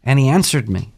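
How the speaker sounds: measured, solemn psalm reading that drops away at the end; scripture reading. Acted. Podcast host reading a psalm to his co-hosts, solemn and measured. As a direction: read the psalm slowly like a prayer.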